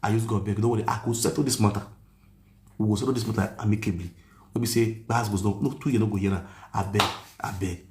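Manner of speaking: low, gentle begging; soothing the angry mother on the phone; pleading softly. Retold or imitated. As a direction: coax her like a peacemaker. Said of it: "I call the pet her".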